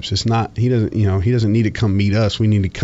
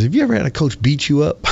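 coach's voice, higher and put-on; gruff coach; 6 semitones higher than usual. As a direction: play the tough coach teasing his player. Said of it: "he says".

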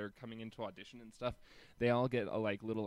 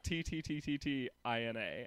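imitating a stutter. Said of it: "Tina stutters in writing her name".

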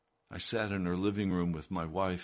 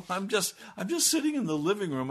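incredulous laughing aside; 12 semitones higher, 6 dB louder, faster than usual. Real, not acted. Pastor recounting absurd confrontation.

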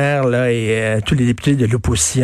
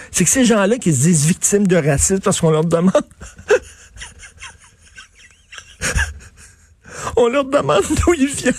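mock whiny victim; 5 semitones higher than usual. Mocking those who claim victimhood.

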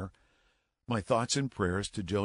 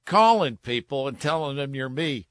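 mock yell across the room, higher and louder; retold yell; 4 semitones higher, 5 dB louder than usual. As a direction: call him out across the funeral home. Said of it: "And Joe yells at him across".

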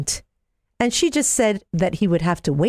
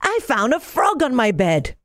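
yelling out; 6 semitones higher than usual. Acted. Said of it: "he yelled out".

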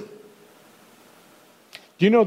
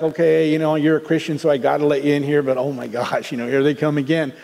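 mildly frustrated; 3 semitones lower, faster than usual. Retold or imitated. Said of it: "just a little frustrated".

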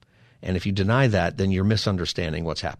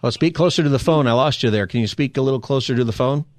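raised voice; 4 semitones higher, 4 dB louder than usual. Real, not acted. Host calling to faint caller.

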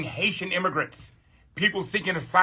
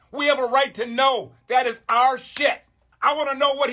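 fired-up demand; 6 semitones higher than usual. Real, not acted. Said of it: "sometimes I get a little emotional".

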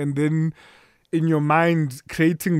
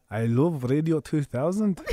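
Scottish accent; 4 dB quieter than usual. Shown as a demonstration.

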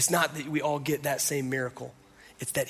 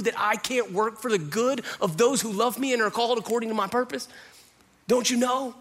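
building from level to much higher and passionate; Jesus answering; 6 semitones higher than usual. Retold or imitated. Jesus answering doubting Martha, building to a passionate high. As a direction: rise with each question until it peaks. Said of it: "It's like he's looking at her going".

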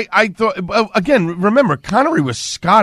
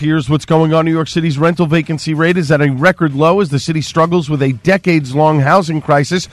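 steady, even radio newscast; radio news bulletin voice; news read. Real, not acted. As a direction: deliver the local headlines as an anchor. Reads local news.

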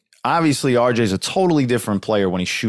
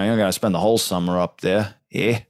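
put-on Canadian accent. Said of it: "that was a terrible Canadian accent".

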